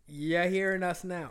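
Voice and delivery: mock Virgin Islands accent, slow; lightly put-on Virgin Islands lilt. Showing off an accent on request, mock Virgin Islands accent. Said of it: "Let me hear your Virgin Island".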